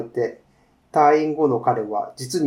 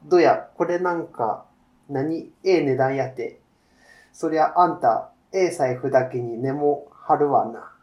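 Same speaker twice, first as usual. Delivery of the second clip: a shopkeeper lightly voiced in a Kansai accent; easy Kansai shop talk, lightly voiced; Kansai dialect. The shopkeeper talks with a customer, a light Kansai accent. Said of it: "関西弁ですね".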